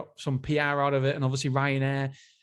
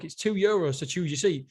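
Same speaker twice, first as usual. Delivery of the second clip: lightly voiced blunt boss, higher pitched; a hint of a dismissive CEO talking down; mocking the airline boss; 4 semitones higher than usual. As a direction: tease the customers like a tight-fisted tycoon would. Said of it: "That's what he said in his book".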